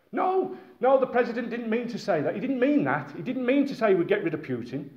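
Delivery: pitched high, hurried damage control; nervous spokesman insisting he didn't mean it; flustered advisor. Pretend. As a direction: backpedal fast like a panicked aide. Panicked advisors backtracking.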